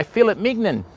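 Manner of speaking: "fillet mignon" with a hard t, FILL-it; Aussie fillet. Shown as a demonstration. Joking about Aussie words, "fillet" as FILL-it. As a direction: say "fillet" the flat Australian way. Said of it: "in Australia we go".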